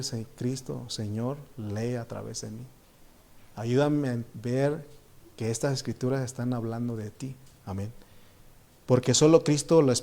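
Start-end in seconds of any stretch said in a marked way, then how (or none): 0.0-7.9 quiet prayer. Shown as a demonstration. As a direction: pray it softly under the breath. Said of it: "tenemos que decir".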